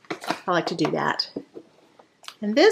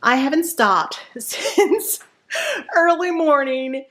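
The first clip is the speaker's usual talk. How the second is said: out of breath; 5 semitones higher, slower than usual. Real, not acted. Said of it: "I am so out of breath".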